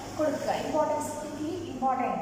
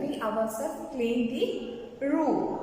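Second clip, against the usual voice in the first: slower, measured classroom reading; slow repetition; slower than usual. Shown as a demonstration. Teacher repeating an example for the class, slow and deliberate. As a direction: say it slowly for note-takers.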